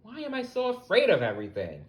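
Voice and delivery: frightened spider whining to himself, high and fast; fretful wail. Acted. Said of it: "Webster said to himself".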